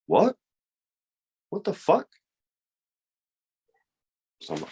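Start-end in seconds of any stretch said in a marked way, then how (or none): 0.1-2.1 baffled. Retold or imitated. Baffled by partner's accusation.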